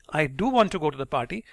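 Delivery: "do" stressed to contradict. Shown as a demonstration. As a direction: push back by leaning on "do". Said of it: "you stress on the word do".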